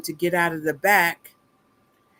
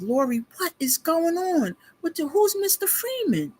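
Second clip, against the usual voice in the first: retold bafflement; 10 semitones higher than usual. Retold baffled question to Lori.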